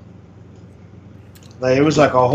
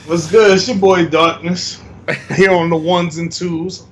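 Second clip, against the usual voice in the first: hype intro; 3 semitones higher, slower than usual. Shown as a demonstration. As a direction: announce yourself with swagger. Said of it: "I was gonna say it anyway".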